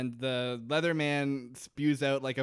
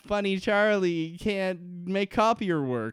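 mock caveman grammar; 6 semitones higher, 4 dB louder than usual.

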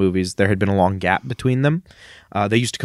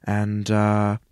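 bad Pierce impression. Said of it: "really bad impression of him".

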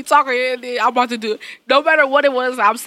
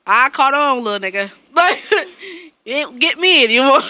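triumphant taunt; 4 semitones higher, 5 dB louder than usual. Retold or imitated.

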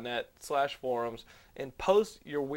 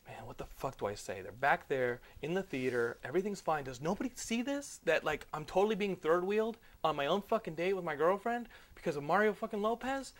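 muttering to himself; 6 dB quieter than usual. Retold or imitated. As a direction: grumble it privately, barely voiced. Muttering to self at concession stand.

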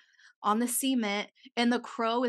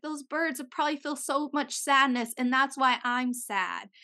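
retold bawling; 3 semitones higher than usual. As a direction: plead it, lightly mimicking crying.

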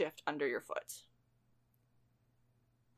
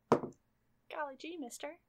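put-on wholesome 1950s kid; 8 semitones higher than usual. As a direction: play an eager old-time kid. GM plays a gee-whiz kid.

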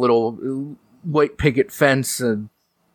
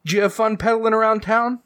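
quick, high motherly question; high mom voice; 10 semitones higher, faster than usual. Acted. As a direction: chirp it like a fond mom.

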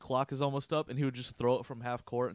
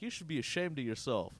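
put-on American accent; 4 dB quieter than usual. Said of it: "not an American accent".

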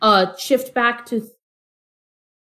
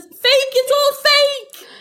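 much higher, strained little-cat voice; panicked cat; 13 semitones higher, much slower than usual. Acted. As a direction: blurt it out high in panic. Cornered cat character denies the threat.

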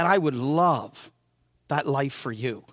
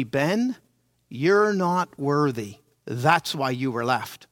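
slow, lightly voiced taunting snake; snake of shame; 5 semitones lower, slower than usual. Snake of shame taunting the boy Ben, slow. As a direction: drag it out like a sly snake.

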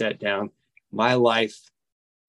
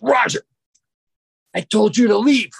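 loud, high-pitched yell with pauses between phrases; acted-out shout of reprimand; retold angry yell; 10 semitones higher, 5 dB louder than usual. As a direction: yell it as the facilitator catching him out. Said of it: "and he yells".

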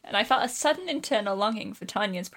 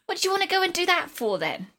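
high-pitched disbelief dropping at the end; incredulous exclamation; 10 semitones higher than usual. Acted. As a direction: demand an explanation, aghast. Sister exclaims at missing fingers.

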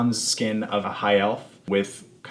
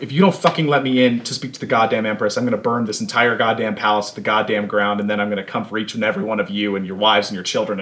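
angry yelling; 3 dB louder, faster than usual. Acted. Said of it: "she's basically yelling in translated".

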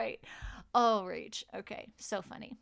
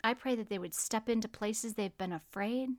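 prayer; 3 dB quieter than usual. Acted. Prayer continues.

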